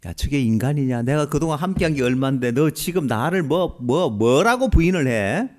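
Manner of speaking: mock disgusted glare at a traitor; glaring scorn. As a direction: sneer it like a man who'd glare. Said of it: "예수님 베드로를 째려보지 않았습니다". (째려보며 비아냥대듯)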